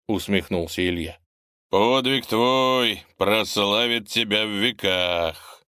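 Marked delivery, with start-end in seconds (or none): 1.7-5.6 slow solemn proclamation; proclaiming. Acted. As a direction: proclaim it slowly. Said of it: "провозгласил князь".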